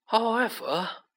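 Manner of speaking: calm, deliberate authority; slow and clear. A narrator's reading. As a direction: enunciate deliberately so none can miss it. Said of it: "speaking very slowly and clearly".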